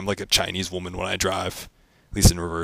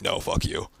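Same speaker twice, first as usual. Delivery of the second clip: grumpy car voice; 5 dB quieter, slower than usual. Pretend. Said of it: "And it's like".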